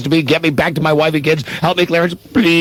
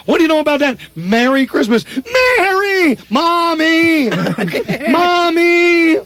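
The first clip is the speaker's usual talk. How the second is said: overjoyed shouting; 12 semitones higher, slower than usual. Acted. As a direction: shout with the joy of getting your life back. George runs through town overjoyed.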